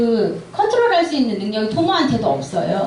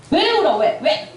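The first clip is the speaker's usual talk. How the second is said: higher, sharp mock demands; a hint of a parent berating a crying child; harsh scolding parent; 4 semitones higher than usual. Parent berating a child for crying, mock harsh. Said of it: "막 이러면서 애를 때리는 거죠".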